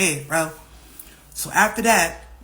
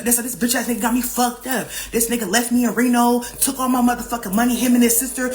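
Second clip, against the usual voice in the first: higher-pitched, heated venting; retold angry rant; 4 semitones higher than usual. Upset woman telling her friend about being abandoned, retold angry rant. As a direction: pile up the grievances, worked up. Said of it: "I'm going the fuck off".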